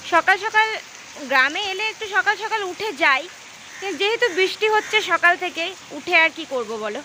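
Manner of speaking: talking with a toothbrush in mouth; while brushing teeth. Real, not acted. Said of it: "এখন brush করছি".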